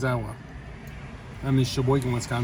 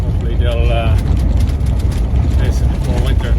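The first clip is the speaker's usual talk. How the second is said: on a bumpy road; 3 semitones lower than usual. Real, not acted. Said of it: "Sorry about the shaking, it's just, it's the road".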